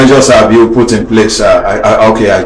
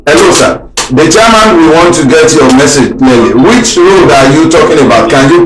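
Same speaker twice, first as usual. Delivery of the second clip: much higher, interrupting hail; calling out insistently; 5 semitones higher than usual. Real, not acted. Host to an unclear caller, calling out insistently. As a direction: cut in over a bad phone line.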